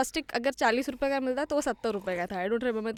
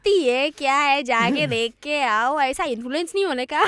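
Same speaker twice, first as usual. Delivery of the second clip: dismissive; 5 dB louder than usual. Retold or imitated. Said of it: "उसका असली चेहरा सामने आया".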